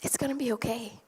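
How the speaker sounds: soft whispered promise that it'll be okay; reassuring whisper. Retold or imitated. To the teary clerk before leaving, a soft reassuring whisper. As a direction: comfort her in a hushed voice. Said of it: "I looked at her and I said".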